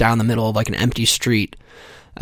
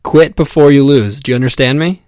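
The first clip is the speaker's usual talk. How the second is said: stern command; 3 semitones higher, 5 dB louder than usual. Acted. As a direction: lay down the law. Stern quoted command opening bit.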